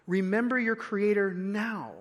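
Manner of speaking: "now" held out at the end of the phrase; stress on now. Real, not acted. Preacher repeating the key line to listeners, stress on "now". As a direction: lean on the final word "now". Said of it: "the emphasis is on the now".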